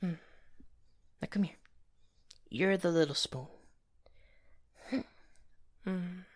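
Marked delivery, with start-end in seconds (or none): 1.2-3.5 whispering. Acted. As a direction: hush it like a partner in bed. Whispering in bed.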